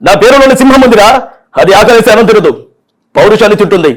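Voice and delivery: lightly voiced mock hero challenge; aggressive Balakrishna dialogue. Mimic the hero threatening the villain, mildly aggressive. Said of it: "aggressive".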